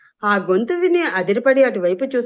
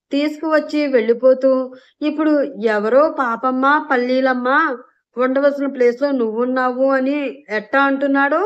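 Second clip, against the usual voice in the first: fake crying; 3 semitones higher than usual. Aneesha faking tears to turn the crowd on him, mock crying. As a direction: put on a weepy act for the crowd. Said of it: "మార్చేసి ఏడుస్తూ".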